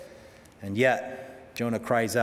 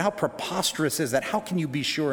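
mock-incredulous, pitched a little higher; higher-pitched, retold mockery; mocking professor; 4 semitones higher than usual. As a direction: scoff in mild disbelief as a sceptical professor. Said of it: "he just mocked it and said".

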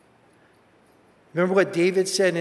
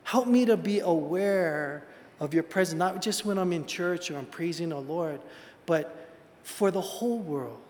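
humble prayer. Retold or imitated. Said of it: "And I say".

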